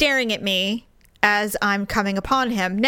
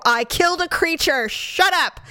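higher, distraught retort, acted out; upset; 5 semitones higher than usual. Wife who killed creature answers husband, upset. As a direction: snap back in retold anguish. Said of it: "I started crying. I was upset".

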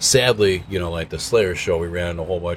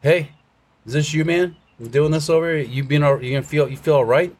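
higher, friendly concerned stranger voice, quickening at the end; big man; 7 semitones higher than usual. Retold or imitated. Big man asking the drunk friend if he's okay, higher friendly voice. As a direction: voice the gentle giant checking on him. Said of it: "He goes".

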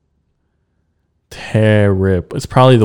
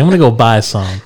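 flat robotic monotone. Retold or imitated. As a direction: speak like a robot. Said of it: "You sound like a robot".

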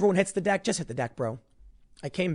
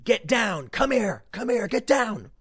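mock urgent shout to take cover; retold urgent yell; 6 semitones higher, slower than usual. Buddy calling him to cover under fire, mock urgent yell. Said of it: "he's screaming".

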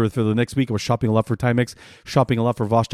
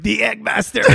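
laughing; 8 semitones higher, slower than usual. Retold or imitated. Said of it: "You're like".

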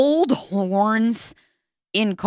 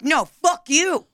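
higher, mildly heated comeback; mock angry retort; 4 semitones higher than usual. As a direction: throw it back at the cafe man, half-replayed. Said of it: "I was like".

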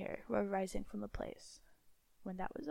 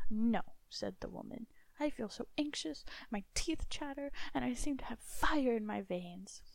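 anxious wife; 2 semitones higher, 3 dB louder than usual. Acted. Wife anxious before doom.

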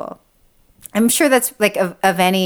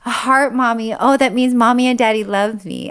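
a hint of an eager child, a bit higher; cheerful little boy spotting a heart; lightly voiced little son; 4 semitones higher than usual. Mother imitating her son finding a heart, lightly. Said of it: "He's like".

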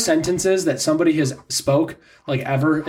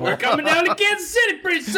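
sudden high mock shout, much higher; mock menacing shout. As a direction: shout it like a joking threat. Joking about going out to murder.

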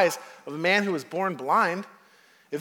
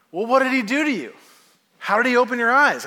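pushy, faster questioning voice, a bit higher; questioning Pharisees; 5 semitones higher, 5 dB louder, faster than usual. Retold or imitated. Pharisees grilling the healed man, pushy and quick. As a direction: press him like a suspicious questioner.

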